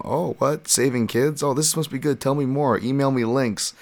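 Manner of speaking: high, gullible, eager voice; mock eager Matt Serra. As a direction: play him as a keen, naive listener. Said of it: "like, you know".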